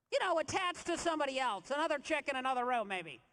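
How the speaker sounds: high start, easing down; hopeful denial, retold. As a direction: play at talking your way out of it. Grasping for other explanation at scan.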